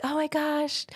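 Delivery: high, breathless imitation of a nervous client; mock scared client. Client voiced in retold story.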